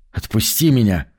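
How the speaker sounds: choked, rasping plea; struggling against restraints. Acted. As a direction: wheeze it while being throttled. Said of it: "прохрипел Хара".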